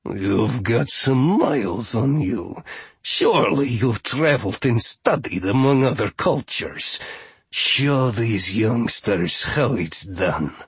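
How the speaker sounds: slow, lightly voiced haughty steward; eccentric steward. Steward asks Grinda to demonstrate, slow and imperious. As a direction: urge the elder on with drawn-out words.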